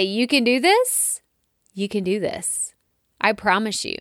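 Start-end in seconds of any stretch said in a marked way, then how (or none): 0.0-1.2 a pep-talk push with a lift at the end; boost. Shown as a demonstration. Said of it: "give you a little bit of a boost and say". 1.7-2.7 softer, sincere "you can do this"; sincere reassurance. Shown as a demonstration. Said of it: "give you a little bit of a boost".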